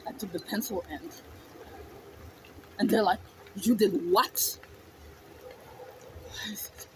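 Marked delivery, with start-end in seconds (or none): 0.1-1.2 low, quiet admission; subdued confession. Retold or imitated. Child explaining the pencil attack to the adults, subdued. 3.5-4.6 incredulous question. Retold or imitated. Adults react to the confession.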